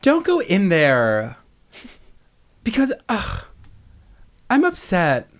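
high, halting, drawn-out actress voice; Parker Posey impression. Showing co-host a rough impression, high drawn-out actress voice. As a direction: pitch it up and leave long gaps between phrases. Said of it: "my Parker Posey one".

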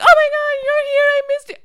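very high gushing squeal; mock excited greeting. Imagining dad greeting the surprise visitor, high gushing excitement. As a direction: squeal it like an overjoyed reunion.

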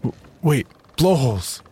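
high excited cry of discovery; excited shout. A narrator's reading. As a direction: shout it out, thrilled. Spotting whales, excited.

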